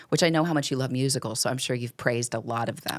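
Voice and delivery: dry sarcastic teasing, quick then dropping. Acted. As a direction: tease him with fake sincerity. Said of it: "I'm being very sarcastic".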